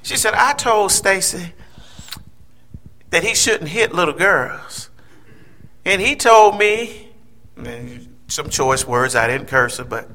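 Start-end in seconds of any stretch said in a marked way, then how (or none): 0.3-7.1 nice and cordial. Retold or imitated. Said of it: "She was so nice and cordial".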